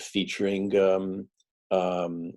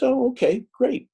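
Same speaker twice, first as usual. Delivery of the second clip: much higher, mock eager editor; 5 dB louder than usual. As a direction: chirp it like a keen editor. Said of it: "And he goes".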